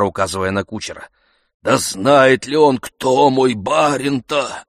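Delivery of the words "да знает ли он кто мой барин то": reverent awe. A narrator's reading. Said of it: "с благоговением спросил он".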